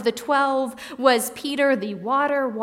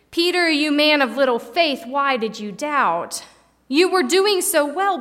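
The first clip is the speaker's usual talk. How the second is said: strong rebuke; 2 semitones higher, 3 dB louder than usual. Retold or imitated. Jesus rebuking Peter for doubting, stern. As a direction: scold the disciple who let fear win. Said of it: "Somewhat of a strong rebuke".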